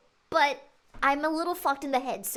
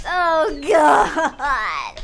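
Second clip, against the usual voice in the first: exclaiming; 3 semitones lower, 6 dB louder than usual. Real, not acted. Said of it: "streamer reacting to chat".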